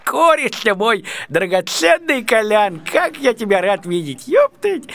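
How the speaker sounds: drawn-out, delighted welcome; effusive greeting. Acted. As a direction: greet an old pal with slow relish. Effusive greeting of an old friend.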